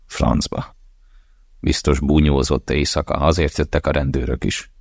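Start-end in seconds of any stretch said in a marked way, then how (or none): 0.1-0.8 a whispered, breathless curse under the breath; muttered curse. Acted. Hungover man curses alone in bed, whispered. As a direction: hiss it to yourself, barely voiced.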